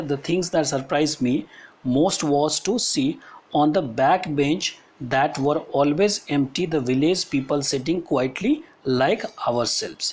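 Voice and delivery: slow, deliberate classroom reading; measured textbook reading with pauses; read-aloud text. Acted. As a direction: read it out phrase by phrase for students. Reads the story text aloud.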